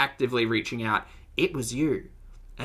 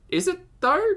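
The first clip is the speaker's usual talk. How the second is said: sarcastic doubt; 4 dB louder than usual. Real, not acted. Sarcastic retort to clip's excuse.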